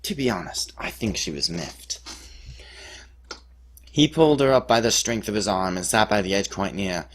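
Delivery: mock-epic ballad recital with swooping phrases. Storyteller recounts his hilarious cliff rescue as a dramatic ballad, ballad voice. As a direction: declaim it in verse, launching each phrase strongly and letting it fall. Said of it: "a dramatic retelling in my best ballad voice".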